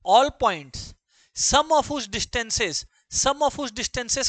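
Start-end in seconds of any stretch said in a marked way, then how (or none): 1.4-4.3 drawn out word by word for students to write; slow teacher's dictation. Shown as a demonstration. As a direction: dictate it very slowly. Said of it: "teacher dictating slowly".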